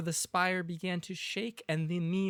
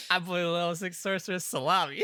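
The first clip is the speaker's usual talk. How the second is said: mocking voice; 2 semitones higher, 4 dB louder, faster than usual. Mocking intro voice.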